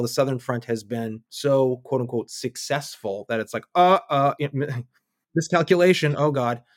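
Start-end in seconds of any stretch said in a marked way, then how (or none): 3.7-6.6 stammered, higher-pitched mock alarm; mock dismay. Analyst acting out a group realising its miscalculation, mock dismay. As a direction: act out a sudden uh-oh realisation. Acts out their startled realisation.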